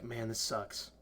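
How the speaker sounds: soft, low-key grumble; calm mad Mike. Retold or imitated. Imitating a friend getting mad in a game, softly grumbling. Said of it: "That's him getting mad".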